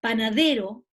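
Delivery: teacher's model "Panadero", loud stress on DE; tonic syllable demo. Shown as a demonstration. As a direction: hit DE in "Panadero" to show the stress. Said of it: "ahí identificamos la sílaba tónica".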